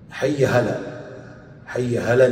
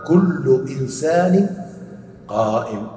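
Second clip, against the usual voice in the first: slow model phrase; 2 semitones higher, slower than usual. Shown as a demonstration. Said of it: "لو قدرنا نقول".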